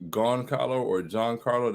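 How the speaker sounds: "Goncalo" and "Giancarlo" said slowly as alternatives; two pronunciations compared. Shown as a demonstration. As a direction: weigh "Goncalo" against "Giancarlo", sounding out each. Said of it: "Is it pronounced".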